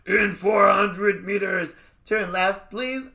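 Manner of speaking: slow, high, drawn-out nav call, please rising high; kids' nav voice. Retold or imitated. Kids' voice on Waze greeting Rabbi Sachs, mock GPS. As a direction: ham up a goofy GPS voice. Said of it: "my kids come on".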